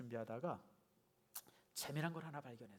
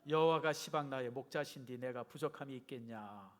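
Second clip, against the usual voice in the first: Jeolla dialect. Acted. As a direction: have a go at reading like a Jeolla local. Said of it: "우리 전라도 버전 또 읽어봅니다". (어설픈 전라도 사투리로)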